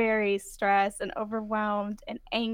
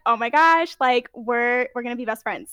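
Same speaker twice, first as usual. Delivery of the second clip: excited; 6 dB louder than usual. Retold or imitated. Retold excited K-pop fan.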